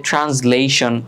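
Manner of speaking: slow "ট্রান্সলেশন" with z for the s; s pronounced as z. Shown as a demonstration. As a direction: sound out "ট্রান্সলেশন" as "tranz-lation". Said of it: "এস এর উচ্চারণটা জয়ের মতো হবে".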